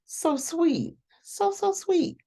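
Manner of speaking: very high, small sweet voice; squeaky-sweet aww; gushing coo. Real, not acted. Cooing over a kind friend.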